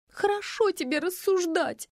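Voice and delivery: high, slow sulking; sulking pout; sulky. A narrator's reading. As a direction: pout it resentfully. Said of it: "надулась Фаина".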